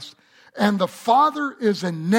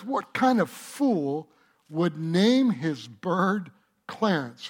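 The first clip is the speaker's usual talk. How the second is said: slow, scornful question; mocking thief; slower than usual. Thief slowly scoffing at the bird's name. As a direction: drag it out in disbelief.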